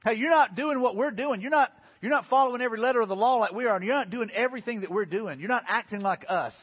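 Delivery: mildly hammed-up scolding that eases off; a hint of indignant rule-keepers; scolding religious leaders. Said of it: "what the religious leaders were pretty much saying".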